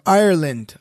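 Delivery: Ireland in an attempted Irish accent, a bit punched; poor Irish accent. Shown as a demonstration. Host tells co-hosts about Saint Patrick, attempted Irish accent. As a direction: say Ireland with a badly faked Irish lilt. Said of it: "I don't have a good Irish accent".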